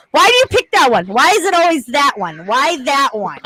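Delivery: mock-whiny repeated questions; imitating Taylor's whine. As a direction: nag like a pestering kid. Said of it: "And he goes".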